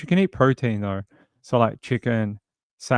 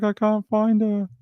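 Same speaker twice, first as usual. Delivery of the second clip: high, slow sad little cat voice; cat's voice; 10 semitones higher than usual. Retold or imitated. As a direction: whimper it like a lost kitten. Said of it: "He's like".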